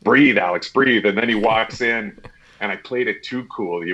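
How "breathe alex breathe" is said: self-calming. Retold or imitated. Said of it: "I had the moment of".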